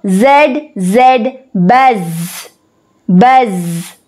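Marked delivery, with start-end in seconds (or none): 1.5-4.0 low-pitched buzz with a lingering z; bee's buzz. Shown as a demonstration. Teacher showing what sound a bee makes, low humming buzz. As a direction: hold the final z like a bee. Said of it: "What sound does a bee make?".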